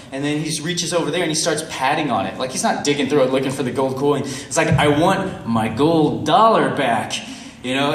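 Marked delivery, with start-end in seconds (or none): 4.7-7.1 slow, loud, emphatic demand; frustrated demand. Retold or imitated. Storyteller to beggar over gold dollar, frustrated insistence. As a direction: spell it out slowly as if not understood. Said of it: "I'm getting really frustrated".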